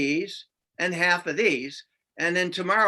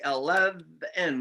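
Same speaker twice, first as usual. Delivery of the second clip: slow blending; 3 semitones lower, much slower than usual. Shown as a demonstration. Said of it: "he tags the V".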